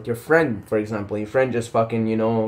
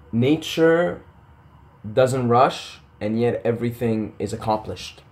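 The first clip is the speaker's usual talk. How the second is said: slow reverent quote; slower than usual. Shown as a demonstration. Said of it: "I love this quote".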